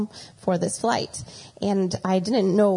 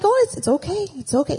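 soothing dad; 9 semitones higher than usual. Retold or imitated. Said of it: "he was so calm".

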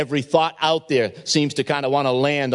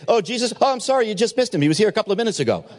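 higher, flustered fake excuse, rushing the end; mock panicky Jesus; 5 semitones higher, much faster than usual. Preacher imagines a panicking Jesus, flustered and rushed. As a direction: play a flustered Jesus fobbing off the soldiers. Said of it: "if he was panicking, he would have said".

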